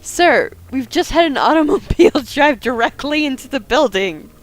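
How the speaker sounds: laughing. Acted. Stressed clerk, laughing mid-line.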